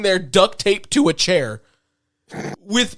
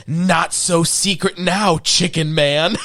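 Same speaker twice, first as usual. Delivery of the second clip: smug taunt; slower than usual. Retold or imitated. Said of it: "Billy looking at the card going".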